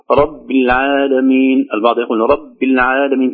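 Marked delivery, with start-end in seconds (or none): 0.1-1.7 slow رب العالمين with the final i of رب swallowed; kasra lost on رب. Shown as a demonstration. Teacher showing the mistake, رب said as if vowelless. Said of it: "لا نقول". 2.2-3.3 رب العالمين with only a weak, swallowed kasra; رب as if vowelless. Shown as a demonstration. Teacher imitating some reciters, kasra of رب barely sounded. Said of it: "كأنها ساكنة".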